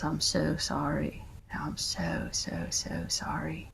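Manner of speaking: a mother softly apologizing to a son; soft apology. Retold or imitated. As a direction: apologize gently, drawing it out.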